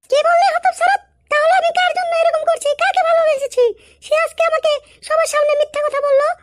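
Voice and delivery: stung, scolding outburst; outraged reproach. Acted. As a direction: lash out at the lover who denied it. Woman outraged at lover's denial.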